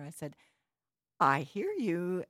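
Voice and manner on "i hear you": slow, drawn-out playful tease; teasing. Retold or imitated. Woman joking with a screaming little girl, teasing. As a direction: tease with a stretched, louder delivery. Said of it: "I was teasing her".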